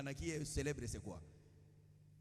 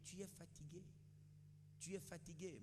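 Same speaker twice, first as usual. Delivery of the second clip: mock weariness; 3 semitones higher, 15 dB quieter than usual. Mimics excuse of being tired.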